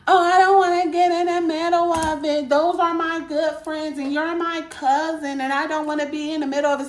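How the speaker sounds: mocking the cousin. Mocking the cousin who would not take sides, lightly whiny. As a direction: lightly mimic her excuse. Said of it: "Oh, my cousin did".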